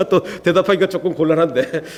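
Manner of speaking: amused chuckle through the words; real chuckle at an awkward question; laughing. Real, not acted.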